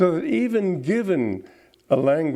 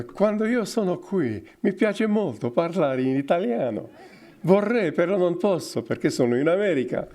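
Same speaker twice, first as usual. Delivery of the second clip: vowel-rich Italian; 3 semitones higher than usual. Shown as a demonstration. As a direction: savour each Italian vowel. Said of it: "hear them talking with vowels".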